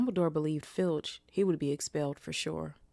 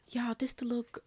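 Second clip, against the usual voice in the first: whisper; 7 semitones higher than usual. Real, not acted. Sudden aside to viewers.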